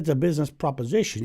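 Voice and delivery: a hint of Southern drawl; lightly drawled Southern salesman. Colonel Sanders corrects the Pope in a light Southern drawl. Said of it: "in a southern drawl".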